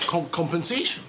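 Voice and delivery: stammered, disbelieving rising question; stunned question. Acted. Boss stammering at the demand for compensation, stunned disbelief. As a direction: trip over the word compensation in shock.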